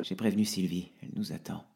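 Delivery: quiet, fading out; trembling whisper-soft; broken voice. Acted. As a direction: hold back tears. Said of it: "la voix brisée".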